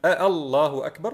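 الله begun with held "aa", as if asking; merged long hamza. Retold or imitated. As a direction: hold the opening vowel of الله questioningly. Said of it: "ضمتا في همزة مد". (آلله أكبر بهمزة ممدودة كالتساؤل)

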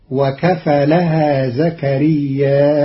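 زكرياء ending in a hamza after a long vowel; وكفلها زكرياء with hamza at the end; Qalun reading. Shown as a demonstration. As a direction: stretch زكرياء and close it on a glottal stop. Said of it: "فتصير الجملة كلها".

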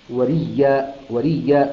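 وريا with a doubled y, wa-riyyā, no glottal stop; hamza merged into ya. Shown as a demonstration. Teacher shows how Qalun reads وريا in Surat Maryam. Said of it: "أبدل الهمزة ياء ثم أدغمها".

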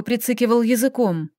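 usual speaking voice

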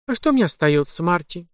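tipsy hiccup on the name; hiccuping drunk. Acted. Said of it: "ещё раз икнула мисс Ли".

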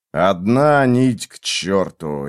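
ordinary delivery

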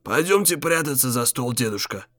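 soft calm whisper. Acted. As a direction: whisper it calmly into his ear. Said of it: "армянин шепнул Ефимычу на ухо".

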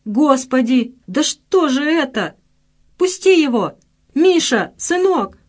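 mother screaming as thugs grab her son; frantic cry. A narrator's reading. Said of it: "заполошный крик женщины".

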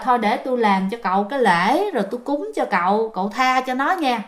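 softly bargaining, trailing gentler; imitated soothing healer; sweet coaxing. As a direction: offer a deal to placate them. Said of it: "ông mới dỗ ngọt".

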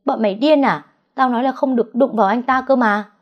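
high, loud furious yelling; furious shout. A narrator's reading. The villainess screams at her men for hurting him, furious. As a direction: tear into your own henchmen. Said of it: "Cô hét lên".

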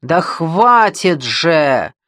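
loud outburst. Acted. Quarrel, he snaps at her.

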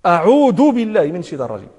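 أعوذ said with d in place of dhal; dhal lost. Shown as a demonstration. Teacher imitating careless reciters, أعوذ with d for dhal. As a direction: turn the dhal of أعوذ into a plain d. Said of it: "فالذال لا تنطق ذالا أصلًا".

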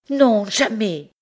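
high, loud, slow final no; firm refusal. Acted. Bertrande refuses Pierre outright, loud, high and slow. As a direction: dig in and refuse.

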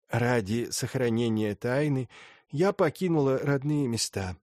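lightly voiced stern old lady; a hint of an imperious grande dame; haughty old princess.

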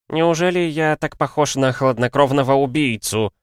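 high, affronted protest; mock-offended alchemist; indignant. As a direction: bristle at the accusation. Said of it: "возмутился алхимик".

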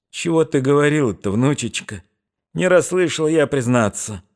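high mumbling granny voice; old woman voice. A narrator's reading. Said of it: "прошамкала старуха".

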